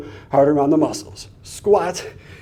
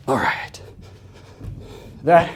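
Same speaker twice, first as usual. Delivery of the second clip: breathy whisper; 5 dB quieter, slower than usual. Real, not acted. Recovering after a heavy rep.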